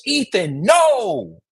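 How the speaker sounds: grandmother calling out high, a sharp yelled no; alarmed call. Retold or imitated. Grandma yelling at the toddler running to the street, sharp high alarmed call. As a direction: snap the name, then yell no to stop him. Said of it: "my mom goes".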